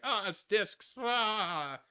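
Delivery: high, loud mock excited squeal; hammed-up excited cry; mock excitement. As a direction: ham up the crowd's thrill. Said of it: "everyone's like".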